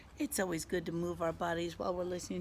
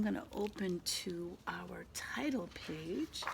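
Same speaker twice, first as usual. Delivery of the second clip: whispering; 6 dB quieter than usual. Acted. Teacher whispers to kids.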